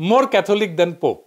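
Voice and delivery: each English word spaced out and slowed; mock-solemn slow English idiom; slow, deliberate English phrase. Shown as a demonstration. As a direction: lay out the saying very slowly, word by word. Quoting an English saying.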